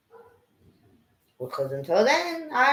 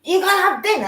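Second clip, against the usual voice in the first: mum calling; 11 semitones higher, 5 dB louder, faster than usual. Retold or imitated. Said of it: "she went like that".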